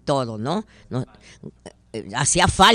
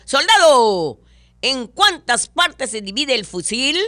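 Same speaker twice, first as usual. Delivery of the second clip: loud, higher officer's demand; barking general; 7 semitones higher, 6 dB louder than usual. Acted. A general quizzes his soldier, loud commanding bark. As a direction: bark the question like a drill general.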